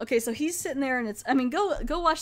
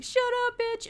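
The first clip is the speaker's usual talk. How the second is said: mock snarl. Danny retold shoving Vendetta.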